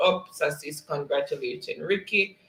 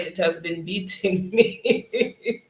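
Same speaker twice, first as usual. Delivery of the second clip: slow words dissolving into real laughter; laughing admission; 3 semitones higher, slower than usual. Real, not acted. Host admitting the chat beat them, laughing. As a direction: draw it out, then crack up.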